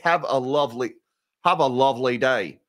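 attempted British accent that slips toward Australian; Tim Curry. Host quoting an actor for a viewer's super chat, shaky British accent. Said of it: "as the great Tim Curry would say".

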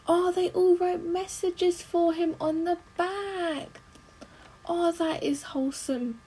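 high, drawn-out aww of delight; touched cooing. Real, not acted. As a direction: gush slowly, touched by something sweet. Moved by messages in film.

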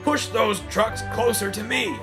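high-pitched bossy command. A narrator's reading. Crane orders the twins to push trucks, bossy. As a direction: order them about as a pushy crane. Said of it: "grew bossier than ever".

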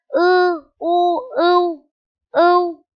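high, loud, slow spelling chant; spelling out slowly. Shown as a demonstration. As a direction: stretch each sound for children to copy. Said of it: "Chúng mình sẽ đánh vần là". (đánh vần chậm, cao và to)

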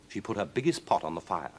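ordinary delivery, nothing marked

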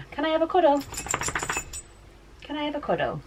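high, soft sing-song plea. Real, not acted. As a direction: beg the dog sweetly for a cuddle. Asking dog for cuddle.

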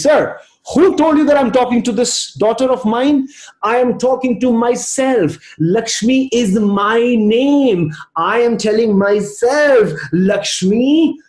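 high-pitched, emphatic correction; indignant retort. Retold or imitated. Mother answering an old man who misread her, indignant. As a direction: set him straight, stretching the key words.

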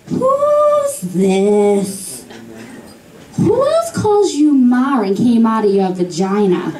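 brash mom on the phone; sassy Boston mom; mother voice. Retold or imitated.

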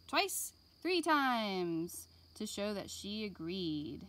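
put-on lively read-aloud for young children; gentle classroom story voice; storybook reading. A narrator's reading. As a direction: read it like a picture book to kids. Reading picture book to class.

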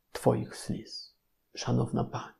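breathy near-silent address to a lady; almost voiceless, leaning in close; a hush for the grieving woman; hushed plea. Acted. Tender address to Rachel.

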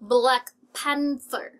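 slow Black Panther, TH in "Panther"; clear English TH. Shown as a demonstration. Teacher models the name for learners, slow and clear TH. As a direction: say "Black Panther" slowly with tongue-out TH. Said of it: "มี ทีเอช ตรง fur".

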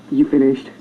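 low, restrained mock annoyance; lightly acted menace, pitched low; understated pretend irritation; pissed off. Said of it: "he gets all pissed off".

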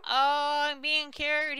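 high, put-on villager voice; imagined villager voice. Player voicing the zombie being cured, high-pitched mock delight. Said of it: "He's like".

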